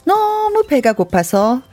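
measured folk-tale storytelling; story narration. A narrator's reading. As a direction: tell it like an old tale, pausing for effect. (옛날이야기 들려주듯)

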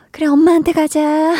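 put-on high reassuring voice handing the crying kid back to mom; soothing a crying child. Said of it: "이렇게 바로 되는데".

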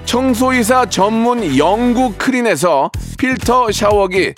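brisk sponsor list read. Acted. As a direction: read the prizes like an ad.

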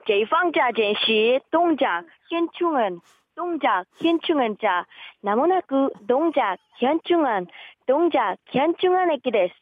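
multilingual station PA, drawn out; lightly voiced transit announcer; subway announcement. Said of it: "안내 방송".

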